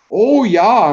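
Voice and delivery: high, loud Minnesotan oh yeah; drawn-out Minnesota oh yeah; Minnesota accent. Retold or imitated. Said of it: "how somebody from Minnesota sounds".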